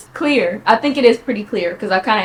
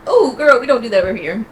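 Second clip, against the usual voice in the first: sassy mock reply; 2 semitones higher, 4 dB louder than usual. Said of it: "how I was like".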